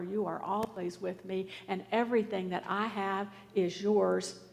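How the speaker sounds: soft, tender reassurance; compassionate, reassuring. Pretend. God reassuring the resentful son, softly and tenderly. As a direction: hold the resentful child close with your voice. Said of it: "looks at us with compassionate love and reassurance".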